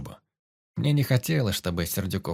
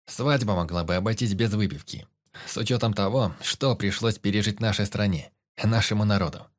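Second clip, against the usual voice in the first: loud and clear. Acted. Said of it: "я говорил громко, стараясь отчётливо выговаривать каждое слово".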